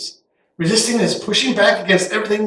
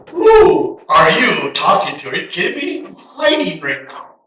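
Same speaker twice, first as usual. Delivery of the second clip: incredulous Gideon. Retold or imitated. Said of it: "He's looking around going".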